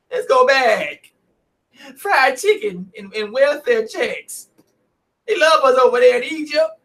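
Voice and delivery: hammed-up fake-tearful whining; mocking weaklings. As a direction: beg to go back like a sniveling coward. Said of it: "Listen to the rest of the weaklings".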